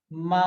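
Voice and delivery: मा held long and level; first tone. Shown as a demonstration. Teacher building an example syllable, level tone on मा. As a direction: draw out मा on one steady note. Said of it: "first tone लगाइए".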